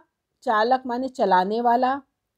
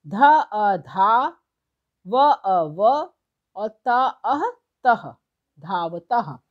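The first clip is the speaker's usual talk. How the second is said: slow, deliberate syllable blending; teacher slowly blending letters into शौचिकः; slow spelling out; 3 dB louder, slower than usual. Shown as a demonstration. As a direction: sound out each letter pair, then join them. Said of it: "जोड़ के एक शब्द बनाना है".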